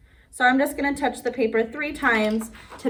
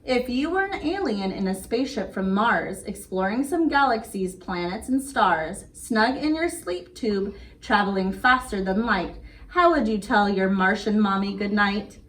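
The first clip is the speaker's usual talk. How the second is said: put-on sing-song read-aloud rhythm for kids; bedtime story reading. Reading a bedtime rhyme to little kids, gentle sing-song.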